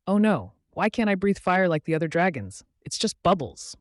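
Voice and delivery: lightly voiced lament of an upset dragon; sad little dragon. A narrator's reading. Little dragon laments having no fire, mildly sad. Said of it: "Sparky said sadly".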